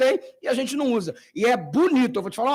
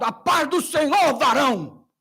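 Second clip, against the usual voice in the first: high, drawn-out hearty hail; pentecostal greeting; 4 semitones higher, slower than usual. Retold or imitated. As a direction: greet like a fervent pentecostal brother. Caller's pentecostal greeting imitated.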